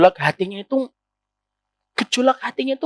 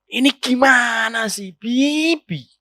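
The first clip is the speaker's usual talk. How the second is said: sharp complaining wife; much slower than usual. Shown as a demonstration. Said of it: "Coba kalau dirubah".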